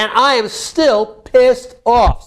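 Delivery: pissed off, stretched out slowly; demonstrated anger. Shown as a demonstration. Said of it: "Say it like that".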